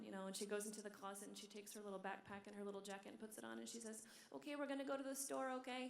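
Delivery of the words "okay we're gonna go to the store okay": lightly voiced mom, pitched higher; coaxing mother. Mom to her little girl before leaving, light coaxing. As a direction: gently chirp it to a small child.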